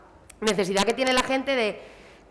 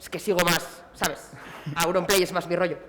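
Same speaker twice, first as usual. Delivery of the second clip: lower, mumbled mock guy voice; a hint of a defensive bloke playing it cool; mock macho fan; 5 semitones lower than usual. Streamer imitating a male fan who pretends he's not a fan, mock lower voice. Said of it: "por qué esta cosa de".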